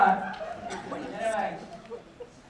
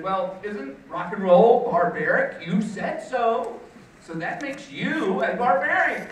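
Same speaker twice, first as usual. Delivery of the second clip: mock accusation; 3 semitones higher, 5 dB louder than usual. Speaker confronting rival over his rock records, mock accusing. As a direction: lightly crow over catching a hypocrite. Acted gotcha against college rival.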